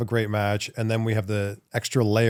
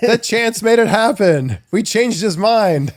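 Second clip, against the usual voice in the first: higher and louder, slow and emphatic; excited; 11 semitones higher, 8 dB louder, slower than usual. Real, not acted. Host praising the crowd's chant, excited and emphatic. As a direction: gush with delight.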